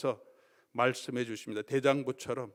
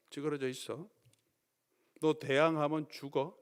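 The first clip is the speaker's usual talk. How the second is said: school bully. Pretend. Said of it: "학교의 폭력배처럼".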